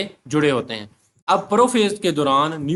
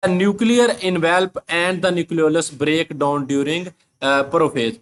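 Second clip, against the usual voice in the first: reads the English line very slowly, word by word; slow dictation reading; slow textbook reading; much slower than usual. Shown as a demonstration.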